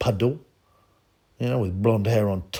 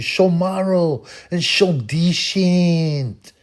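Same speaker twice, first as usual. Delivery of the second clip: sarcastic; 7 semitones higher, 5 dB louder, much slower than usual. Real, not acted. Sarcastic aside on Swedes.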